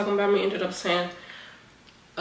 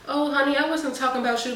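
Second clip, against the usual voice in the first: phony sweet coworker; 5 semitones higher than usual. Retold or imitated. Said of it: "she's acting like that".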